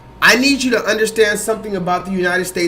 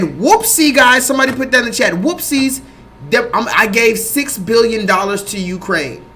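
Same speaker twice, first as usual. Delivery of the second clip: mock casual government. Mocking the government's shrug to the public, breezy mock voice. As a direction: brush off a blunder like it's nothing. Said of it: "they said".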